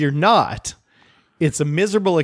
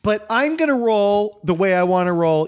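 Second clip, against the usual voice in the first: mock polite put-down; 6 semitones higher than usual. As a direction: sweetly insult her with fake manners, much higher. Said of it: "looked at her, Ryan, and said".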